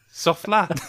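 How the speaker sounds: "lad" with its D barely there; dropped D. Retold or imitated. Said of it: "you dropped the D from lad".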